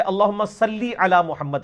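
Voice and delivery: "صلی" slowed, ending in a long "ii", "sallii"; correct Arabic vowel. Shown as a demonstration. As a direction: recite "صلی" carefully as "sallii". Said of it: "لام زیر لی ہوتا ہے".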